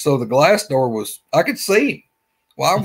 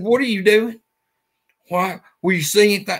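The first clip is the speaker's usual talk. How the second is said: exasperated; 7 semitones higher than usual. Retold or imitated. Exasperated question to lingering woman.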